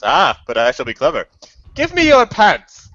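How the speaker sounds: sly villain demand; scheming ad voice. Retold or imitated. Retelling beer ad to friends, hammed-up scheming voice. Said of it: "he says".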